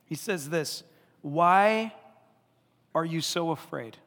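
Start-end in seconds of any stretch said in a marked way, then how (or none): 1.2-4.0 gentle question. Retold or imitated. Quoting Jesus gently.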